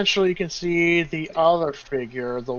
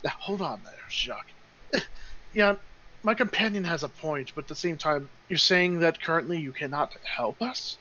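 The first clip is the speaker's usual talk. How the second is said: lightly voiced, softer halfling; halfling companion; 6 dB quieter than usual. Halfling reins in Jacques and questions the leader, softly voiced. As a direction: step in quietly as a measured go-between. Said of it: "you can hear the halfling go".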